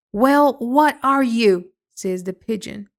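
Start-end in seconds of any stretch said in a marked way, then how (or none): 0.1-1.7 demanding. A narrator's reading. Pigeon demanding an answer.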